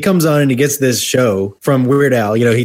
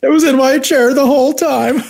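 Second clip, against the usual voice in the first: high, laughing mock outrage; 13 semitones higher than usual. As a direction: laugh through the line. Quoting boss, laughing.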